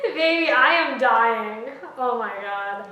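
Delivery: loud, slow, dying of laughter; helpless laughter at partner; horrified amusement. Real, not acted. Cracking up to partner.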